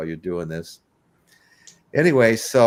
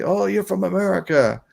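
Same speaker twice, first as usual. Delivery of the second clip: excited Aussie voice, much higher and louder; imitating eager Australians; hammed-up Australian cheer; Australian accent; 8 semitones higher, 4 dB louder than usual. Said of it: "You know, they say".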